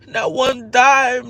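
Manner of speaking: crying laugh. Real, not acted. Bitter laugh through tears.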